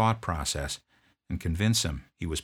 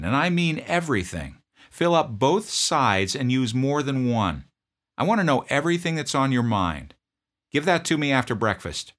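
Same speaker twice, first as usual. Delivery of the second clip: loud, higher, curt demand; drill sergeant; 7 semitones higher, 6 dB louder than usual. Retold or imitated. Drill sergeant confronting a sniffling private, loud bark.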